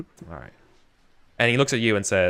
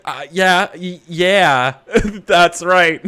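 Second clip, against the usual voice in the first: hurt captive agreeing; 8 semitones higher, 8 dB louder, much slower than usual. Acted. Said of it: "that's all he can say".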